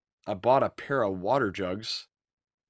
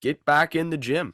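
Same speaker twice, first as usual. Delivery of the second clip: personal trainer voice; 4 semitones higher than usual. Pretend. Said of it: "I know I sound like a personal trainer".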